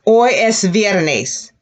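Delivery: slow and clear, each word apart; slow repeat-after-me model; slow model sentence. Shown as a demonstration. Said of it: "And Friday".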